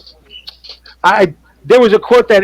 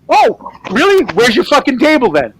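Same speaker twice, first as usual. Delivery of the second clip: sarcastic comeback; 5 semitones higher than usual. Retold or imitated. Retort to rude art-show visitor.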